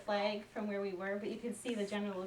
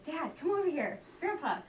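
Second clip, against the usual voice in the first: calling out; 5 semitones higher than usual. Retold or imitated. Son calling family to hole.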